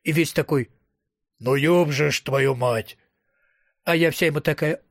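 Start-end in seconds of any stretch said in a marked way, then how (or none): 1.4-3.0 low, drawn-out swearing in dismay; exasperated curse. A narrator's reading. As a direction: curse slowly under a weight of disbelief. Acted exasperated curse in retelling. (протяжное, низкое ругательство с досадой)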